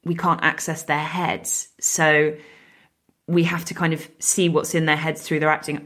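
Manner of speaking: groggy morning-after voice; hungover. Real, not acted. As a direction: sound tired and hungover. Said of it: "I am sounding so hungover".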